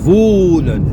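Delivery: Wohnen with a long, closed O; German Wohnen, long vowel. Shown as a demonstration. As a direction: stretch the O in Wohnen. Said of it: "Le O est long".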